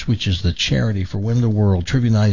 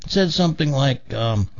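upset sister explaining; 3 semitones higher than usual. Acted. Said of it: "She says".

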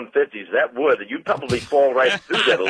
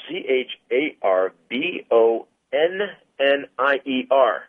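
spelling it out slowly; slower than usual. Shown as a demonstration.

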